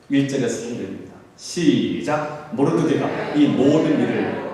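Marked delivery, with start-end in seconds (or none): 2.5-4.4 measured, sustained reading voice; formal Bible reading; scripture reading. Acted. Reads scripture aloud.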